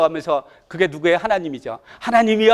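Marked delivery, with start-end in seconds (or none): 2.0-2.5 raised, slightly louder appeal; retold cry to God. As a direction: call out to God as Job, without a full shout. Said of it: "하고 외치는 거예요".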